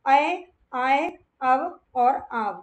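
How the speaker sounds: अय, आय, अव, आव drawn out slowly, each vowel sound held clear; sound demo. Shown as a demonstration. Teacher demonstrating the sandhi sounds to students, slow and drawn out. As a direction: sound out अय आय अव आव slowly so the ending rings. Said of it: "इनकी जो ध्वनि है ना, वो हमें सुनाई देनी चाहिए".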